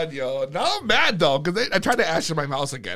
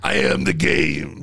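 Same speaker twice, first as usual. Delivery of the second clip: grandiose declaration; 2 semitones lower, much slower than usual. Real, not acted. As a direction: declare it like a legend. Boastful comeback, friend laughs.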